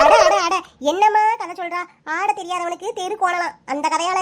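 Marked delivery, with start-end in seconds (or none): 0.0-0.6 mocking laugh. Mocking the excuse.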